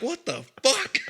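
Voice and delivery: high laughing disbelief; baffled and laughing; incredulous. Retold or imitated. Stunned after the prank.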